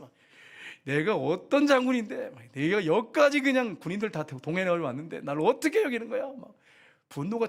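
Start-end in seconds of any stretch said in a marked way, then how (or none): 0.8-6.2 acted indignation, pitch lifting; indignant anger. Offended general complaining at his treatment, acted anger. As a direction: play the affronted general. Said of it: "막 화가 났어요".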